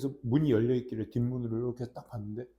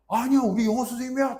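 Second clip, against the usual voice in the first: put-on high, louder insistent kid voice; insisting kids; 9 semitones higher, 6 dB louder than usual. Kids insist he is their teacher, high eager voice. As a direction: insist like a proud student. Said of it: "딱 그러면서".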